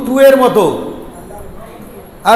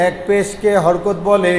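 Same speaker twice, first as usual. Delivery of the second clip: slow chanted class recitation; slow sing-song drill recitation; recited aloud; slower than usual. Shown as a demonstration. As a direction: chant it slowly for the class to repeat. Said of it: "আওয়াজ দিয়া বলি".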